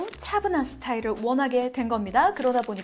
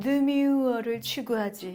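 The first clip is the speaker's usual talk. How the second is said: elegant yet greasy, suave, oily, affected delivery. Showing how to say the fashion word demure, elegant yet greasy delivery. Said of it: "우아하면서도 느끼함을 가미해서".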